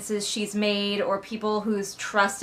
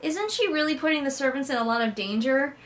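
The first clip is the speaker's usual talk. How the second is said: mock beta reader; 5 semitones higher than usual. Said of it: "beta reader was like".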